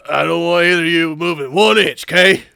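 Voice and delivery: loud, bad British police accent; mock British constable. Detective warning two suspects, mock British constable accent. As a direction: lay down orders in hammy British. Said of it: "we're sticking with this one".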